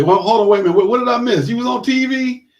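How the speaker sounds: hammed-up double take, wait what; acting out a surprised friend. Host acts out a friend hearing the TV news, stunned.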